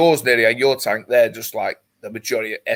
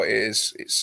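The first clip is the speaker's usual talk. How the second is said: normal talking voice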